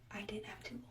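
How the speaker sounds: whispered, barely voiced: I didn't have a tubal; whispered denial. Patient to nurse, stunned, whispered denial. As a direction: breathe it out in shock.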